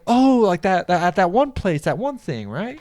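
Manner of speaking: high, vague unsure recall; mild mock of a confused guy; guy playing along. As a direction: imitate a guy half-remembering, lightly voiced. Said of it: "And he was like".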